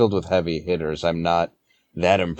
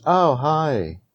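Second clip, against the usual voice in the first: imitating Jerry Seinfeld; 4 semitones higher than usual. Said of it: "so it was just".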